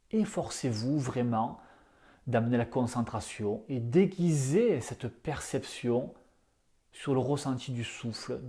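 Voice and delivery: calm yoga nidra guidance in short phrases; lightly hushed, unhurried instructions; guided meditation. Acted. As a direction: guide listeners into the breath, with long pauses. Leads the breathing practice.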